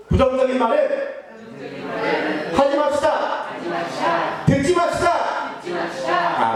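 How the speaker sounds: slow, shouted declaration; firm exhortation. Shown as a demonstration. Preacher leading the congregation in a slow shouted declaration. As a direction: drag it out and proclaim it. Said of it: "옆에 사람에게 이야기해 보겠습니다".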